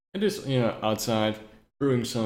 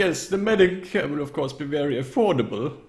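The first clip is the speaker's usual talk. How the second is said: lightly voiced eager old dealer; old necromancer; 7 semitones higher, 5 dB louder than usual. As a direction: reassure as a theatrical necromancer. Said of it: "every time you talk as this necromancer".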